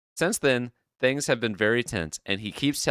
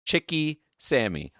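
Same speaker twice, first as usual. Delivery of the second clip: slow, higher mock baby talk; baby-talk order; 7 semitones higher, slower than usual. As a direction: say it like a grown man doing baby talk. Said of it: "said that exact phrase".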